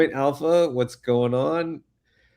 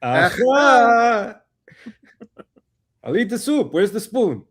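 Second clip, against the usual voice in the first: put-on high, hammy old Jewish man accent; old Jewish grandpa accent, pitched up; 8 semitones higher, 4 dB louder, slower than usual. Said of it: "the old man Jewish accent".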